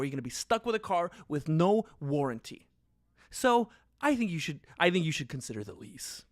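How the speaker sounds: a smooth car salesman gently pushing the lease; salesman pitch. Pretend. Salesman pitching a lease to a nervous buyer, smooth and persuasive. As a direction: sell the lease calmly and persuasively. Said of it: "my impression of selling a car".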